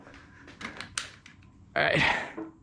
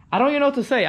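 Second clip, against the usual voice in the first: exasperated disbelief; 8 semitones higher, 4 dB louder, much faster than usual. Real, not acted. Owner stunned by the scooter's resistance, exasperated disbelief. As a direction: pitch jumps way up in disbelief. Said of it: "I'm kinda speechless".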